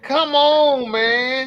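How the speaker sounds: a short fed-up Come on, man, on request; exasperated come on. Shown as a demonstration. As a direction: show how he said it again for the host. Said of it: "How did he say it again?".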